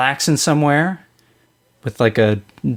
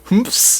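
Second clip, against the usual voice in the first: sarcastic laugh; 8 semitones higher than usual. Retold or imitated. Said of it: "These are, like, sarcastic laughs".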